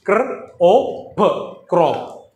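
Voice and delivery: ക്ര, ഓ, പ് apart, then ക്രോപ്പ് whole; slow phonics-style ക്രോപ്പ്; sounding out. Shown as a demonstration. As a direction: break crop into sounds, then blend to ക്രോപ്പ്. Phonics teacher sounds out a word.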